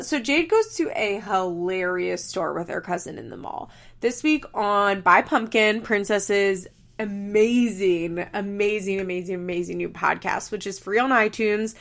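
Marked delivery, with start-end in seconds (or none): 4.0-11.7 ad read. Real, not acted. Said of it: "plug for friend's podcast".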